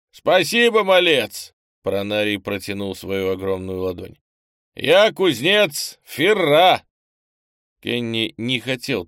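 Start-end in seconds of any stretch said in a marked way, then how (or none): 0.1-1.5 loud, high booming hail; boisterous shouted greeting; burly stranger, hearty. Acted. 4.8-6.8 slow, loud, high booming introduction; boisterous drawn-out shout; burly blacksmith, hearty. Acted.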